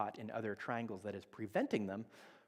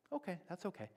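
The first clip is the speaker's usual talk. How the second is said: gentle reassurance; 8 semitones higher, 4 dB quieter than usual. Retold or imitated. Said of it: "if I'm in my best space".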